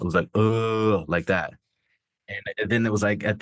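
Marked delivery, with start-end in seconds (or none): 0.3-1.0 drawn-out mock mumble of "uh"; imitated mumbling. Showing what came out when he went to speak, mumbling. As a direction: imitate speech failing into a long "uh". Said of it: "like, mumbling came out".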